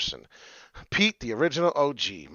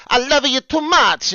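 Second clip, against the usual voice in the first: imitating great-grandma; 11 semitones higher, 9 dB louder, slower than usual. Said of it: "what my great-grandma says".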